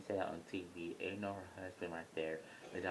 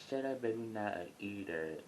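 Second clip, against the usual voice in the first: mild mock yell; 3 semitones higher than usual. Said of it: "Stephanie got up yelling".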